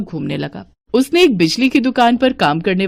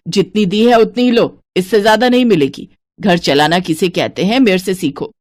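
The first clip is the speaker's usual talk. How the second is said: lightly lowered stingy mother-in-law voice. Acted. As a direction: count every piece like a miser. Santosh lectures.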